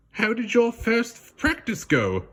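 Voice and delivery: high, gentle voiced father asking; the Sultan's voice. A narrator's reading. Sultan asking his daughter about practice, gently. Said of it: "asked the Sultan that night".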